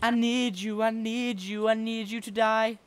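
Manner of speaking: high, chanted plea; hammed-up high begging; mock pleading. Parodies own plea to partner.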